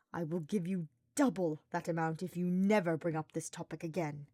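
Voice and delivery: through clenched teeth. Acted. Hubert bribing Sylvain to drop it, clenched teeth. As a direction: push the words through your teeth. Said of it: "Hubert bristled between clenched teeth".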